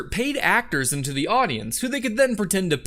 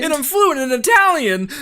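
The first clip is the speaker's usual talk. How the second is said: hammed-up excitement; 6 semitones higher, 4 dB louder than usual. Plant overacting.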